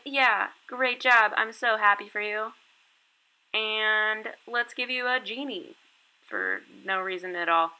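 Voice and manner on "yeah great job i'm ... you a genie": slow, higher, louder gushing; mock teacher praise. Teacher gushing over student, slow and higher. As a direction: lay praise on thick. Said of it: "And you're like".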